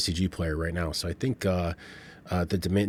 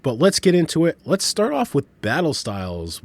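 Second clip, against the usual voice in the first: hoarse, stuffy flu voice; sick with flu; 2 semitones higher than usual. Real, not acted. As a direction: talk through a lingering flu. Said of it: "If I sound a little funny, it's because I have been under the weather".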